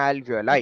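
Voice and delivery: Alveoli pronounced al-vee-o-lai; pronunciation model. Shown as a demonstration. Teacher stressing it is important to learn, Alveoli as al-vee-o-lai. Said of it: "ആ pronunciation correct പഠിക്കുക".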